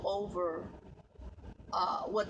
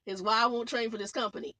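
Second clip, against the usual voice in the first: laughing; 4 semitones higher, 5 dB louder than usual. Real, not acted. Laughing while ranting.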